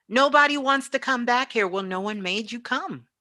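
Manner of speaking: usual speaking voice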